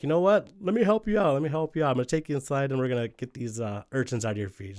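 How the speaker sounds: high, loud, falsely helpful voice; Raven offering help. Retold or imitated. Raven offering to help his hurt brother, high and falsely eager. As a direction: sell the fake kindness up high. Raven feigns helping Siegel.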